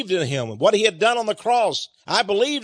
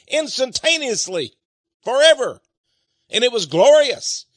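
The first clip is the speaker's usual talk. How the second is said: mounting fervor; 4 semitones higher, 4 dB louder than usual. Real, not acted. Preacher swells in fervor.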